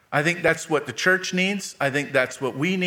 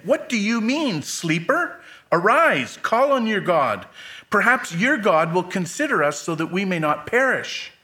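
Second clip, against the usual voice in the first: urgent captain; 5 semitones higher than usual. Acted. Captain rouses sleeping Jonah.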